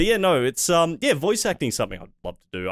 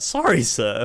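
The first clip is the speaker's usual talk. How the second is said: put-on cracking, breaking voice. Retelling a voice-acting take where the voice broke: imitating own voice crack. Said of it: "I had this voice break".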